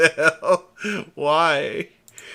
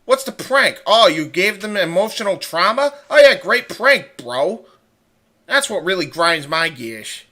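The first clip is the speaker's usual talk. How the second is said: Peter Griffin impression; 3 semitones higher, 6 dB louder than usual. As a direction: rant like a cartoon dad. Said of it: "do a Peter Griffin impression".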